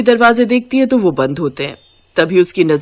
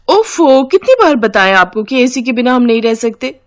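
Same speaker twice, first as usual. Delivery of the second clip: whiny sister-in-law; 4 semitones higher than usual. Acted. Sister-in-law refusing to help with the dishes, higher and whiny. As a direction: whine your way out of the chore.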